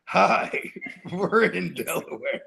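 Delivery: slow punchline, breaking into a laugh; deadpan punchline. Retold or imitated. Friend delivering a movie punchline, laughing. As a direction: laugh through a slowed deadpan line. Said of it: "he said the next one".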